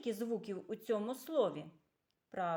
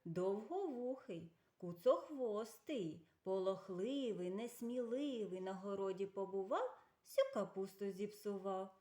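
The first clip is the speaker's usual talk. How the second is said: riddle recitation. Shown as a demonstration. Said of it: "відгадайте загадку".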